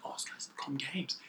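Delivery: very soft, hushed gossip; whispering bystander. Retold or imitated. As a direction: pass it on under your breath. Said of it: "you hear them whispering".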